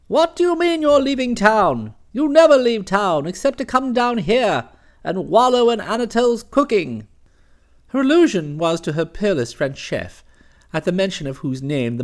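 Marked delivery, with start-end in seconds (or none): 0.1-7.1 a lightly raised, hectoring aunt; hint of a booming aunt; imperious aunt. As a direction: scold him briskly over the phone. Narrator voices Aunt Dahlia.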